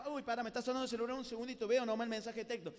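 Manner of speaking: fast, casual excuse; distracted listener. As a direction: rattle it off like a distracted teen. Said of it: "uno de ustedes agarra".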